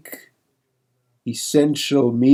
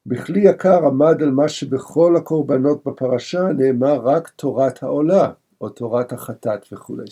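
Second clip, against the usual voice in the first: quick, run-together study-hall reading of the Hebrew; rapid text reading; much faster than usual. Acted. Teacher reading the commentary to his class, rapid study recitation. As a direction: rattle off the source text at speed.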